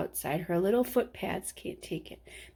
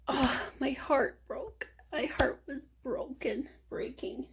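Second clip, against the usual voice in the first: whispered, softer and softer; heartbroken whisper; 4 semitones higher, 5 dB quieter than usual. Real, not acted. Recalling her dog's crying.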